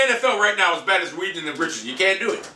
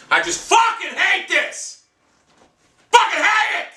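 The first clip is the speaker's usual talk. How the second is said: furious shout; 9 semitones higher, slower than usual. Real, not acted. Fan yelling at his laptop in real anger. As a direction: explode with real fury.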